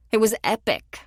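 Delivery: said with a pleased smile. A narrator's reading. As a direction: grin through the words. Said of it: "she added with a smile".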